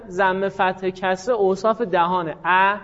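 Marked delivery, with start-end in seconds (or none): 2.5-2.8 "ا" said as an open a; open fatha vowel. Shown as a demonstration. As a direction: open the mouth wide on "ا".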